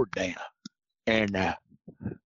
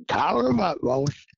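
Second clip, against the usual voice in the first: calling out; 6 semitones higher than usual. Retold or imitated. Judge calling out to hunters.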